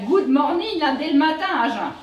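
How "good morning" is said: mocking English greeting. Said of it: "pourquoi que vous nous sortez un".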